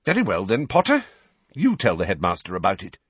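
clipped teacher handing over the floor; McGonagall. Acted. McGonagall tells Harry to speak up, brisk professor. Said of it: "Professor McGonagall looked round at Harry".

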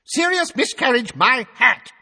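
very high, loud scoffing cry; top of his voice. A narrator's reading. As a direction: bellow the scorn. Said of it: "at the top of his voice".

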